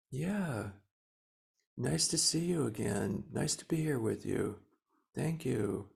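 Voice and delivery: tender self-talk. Pretend. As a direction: coo gently like to a child. Tenderly talking to oneself.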